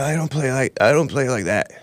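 mock him gently, barely changing the voice; imitating Tim Anderson. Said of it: "But he's like".

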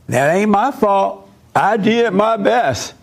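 high, slow self-defense; defensive mother. Retold or imitated. Mother answers church people, high and defensive.

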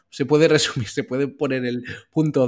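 a rueful laugh breaks the phrase; laughing while speaking. Real, not acted. Laughing at his own crypto losses, rueful chuckle. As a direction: chuckle through the words.

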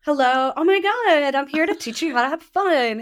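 put-on high, bright ditzy valley girl; bubbly Clueless-style valley girl. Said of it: "in a total Valley Girl voice".

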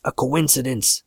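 ordinary delivery, nothing marked

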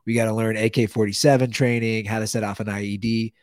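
bad Middle Eastern accent, hammed; hammy Middle Eastern accent as a terrorist trainer; terrible Middle Eastern accent. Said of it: "I do my terrible Middle, Middle Eastern accent".

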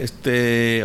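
"este" stretched slowly on its vowels; drawn-out este. Retold or imitated. Imitating Argentines searching for words, drawn-out "este". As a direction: linger on "este" like a filler word. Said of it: "like they do this".

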